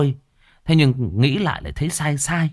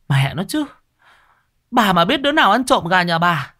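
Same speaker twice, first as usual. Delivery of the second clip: shrill neighbour scolding; 6 semitones higher than usual. A narrator's reading. Fat neighbour rants at the unknown chicken thief. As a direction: scold the whole street hands on hips. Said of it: "mồm thì choa choả".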